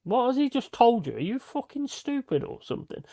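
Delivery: very high, outraged repeated scolding; exasperated yell. Retold or imitated. To his careless mate with the camera, high outraged yelling. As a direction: repeat it, still yelling in disbelief.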